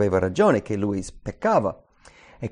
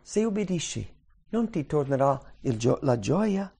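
much softer, tender pleading; gentle, heart to heart; 2 semitones higher, 4 dB quieter than usual. Pretend. God gently pleading with Cain, soft and tender. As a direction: speak softly to the heart. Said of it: "invece Dio parla al cuore".

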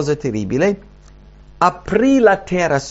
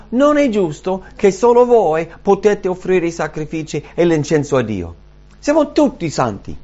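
mildly acted indignant complaint; angry protest; 3 semitones higher than usual. Angry men objecting to Moses and Aaron, mild indignant protest. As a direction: voice their grievance with a touch of anger. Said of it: "si sono arrabbiati con Mosè".

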